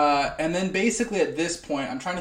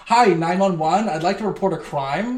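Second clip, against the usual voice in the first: mock phone call; 3 semitones higher, 5 dB louder than usual. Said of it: "and I go".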